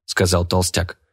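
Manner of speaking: plain reading voice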